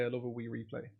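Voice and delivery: soft, low try at a Scottish accent; tentative mock Scottish, under the breath. Shown as a demonstration. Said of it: "Do you want me to do my Scottish accent?".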